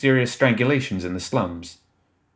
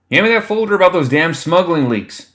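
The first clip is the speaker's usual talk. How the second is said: higher and louder call across a busy room; 9 semitones higher, 6 dB louder than usual. A narrator's reading. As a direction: call out over the noise, pitched up. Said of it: "someone called".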